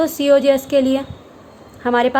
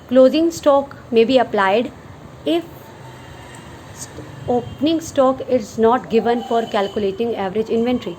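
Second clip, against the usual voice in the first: every word spaced out slowly for note-taking; slow dictation; much slower than usual. Shown as a demonstration. Teacher dictating a definition to students, very slowly. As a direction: read it out slowly so students can write it down.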